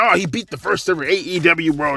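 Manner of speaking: lightly exaggerated excited fan voice; put-on sing-song hype; mocking the fans. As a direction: parrot an overexcited fan, mockingly. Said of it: "Everybody's like".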